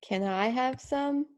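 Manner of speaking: quick, rising question; rising pitch. Shown as a demonstration. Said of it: "a rise above your mark".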